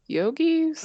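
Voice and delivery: high, loud unsure guess; puzzled question. Retold or imitated. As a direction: ask it like you have no clue. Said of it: "I was like".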